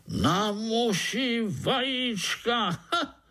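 very high, slow mock outrage; scornful exclamation. Overseer scoffing at the fly eggs, high exclamation. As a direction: burst out in disbelief.

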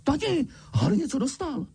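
put-on high whiny child voice telling on him; tattling child. A narrator's reading. Dudley tells his father about Harry's letter, high whine. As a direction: tell on Harry to Dad.

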